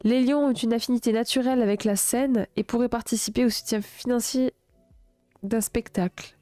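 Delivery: even, projected reading voice; written-text narration, a little lifted; horoscope read aloud. A narrator's reading. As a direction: read it out clearly in measured phrases.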